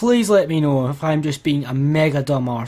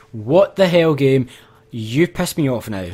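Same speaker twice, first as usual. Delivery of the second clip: angry. Real, not acted. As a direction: shout at the game in frustration. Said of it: "I am raging".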